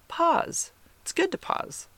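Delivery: high, soft coaxing voice to herself. Retold or imitated. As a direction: coach yourself gently, pitched high. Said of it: "And I'm like".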